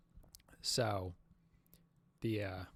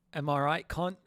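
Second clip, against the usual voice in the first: higher-pitched mock British tag question; attempted British accent; 5 semitones higher, 5 dB louder than usual. Streamer guessing British slang for the viewers, mock British accent. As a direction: toss it out in a put-on British accent. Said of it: "what do British people say".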